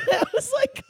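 high laugh breaking into the words; laughing as she quotes herself. Real, not acted. Laughing while retelling the third eye line.

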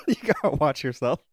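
laughing while choking on coffee; coughing through a sip of coffee. Real, not acted. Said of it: "I'm choking on my coffee".

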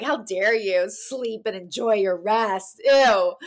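slow, drawn-out indignation; half-joking outrage; mock mad. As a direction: play up being offended. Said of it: "I'm so mad".

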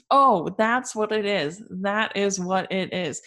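slow, drawn-out mock revelation; cheery realization. Marianne explaining away Willoughby's absence, cheerily relieved. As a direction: imitate relieved self-persuasion, stretching the words. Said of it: "now she's all cheery and".

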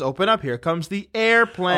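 lightly voiced sing-song parent, a bit high; parent feeding baby. Parent flying a spoon to the baby, playful coaxing. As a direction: coax a baby, stretching out the last word.

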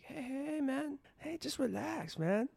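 high, soft, hammed-up Greek accent; airy mock-Greek reassurance. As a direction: imitate a laid-back god with a Greek accent. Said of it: "he totally goes in with, like, full Greek accent".

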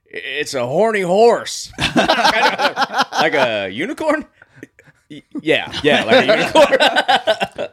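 loud, high, laughing through the words; real helpless laughter. Real, not acted. Joking about Scotland's national animal, real helpless laughter. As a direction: crack up, squealing and stretching the words. Cracking up at own joke.

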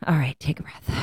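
soft whispered self-calming. Retold or imitated. Stopping herself from pushing on, whispered. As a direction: breathe it to yourself, hushed.

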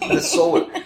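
"Minnesota" echoed very high with a drawn "so"; mock the long o in "Minnesota"; mimicked pronunciation.

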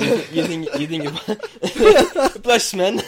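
high, slow laughing. Real, not acted. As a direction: speak through laughter.

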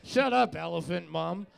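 lightly voiced sulky child; bratty kid retort. Co-host as the kid answers elephant mom, mock defiance. Plays the kid talking back.

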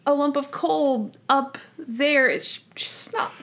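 mock-fretful Monk giggling through it; flustered, laughing Monk. Retelling Monk's fuss over the coal joke, high slow and laughing. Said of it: "And he's like".

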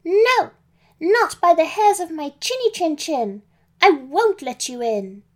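high, loud refusal from a little pig; defiant shout. Acted. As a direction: shout it back through the door, defiant. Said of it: "Pam shouted back".

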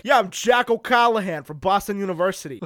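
a light put-on Boston accent; mock Boston accent. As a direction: say it like a movie Bostonian, lightly hammed. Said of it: "there's a lot of really strong accents".

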